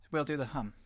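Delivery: breathy whisper of the cue. Real, not acted. Streamer whispering before the warm-up. Starting the hum exercise.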